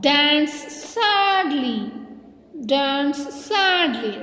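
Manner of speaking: slow, long-stretched classroom prompt; slow teacher's call, gliding down; called-out action command. Shown as a demonstration. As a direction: draw the words out for children to act.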